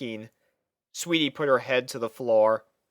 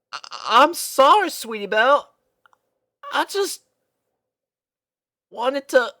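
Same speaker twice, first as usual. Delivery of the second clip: near tears; 13 semitones higher, 5 dB louder than usual. A narrator's reading. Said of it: "on the verge of tears".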